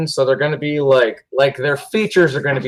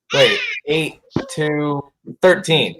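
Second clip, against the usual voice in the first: usual speaking voice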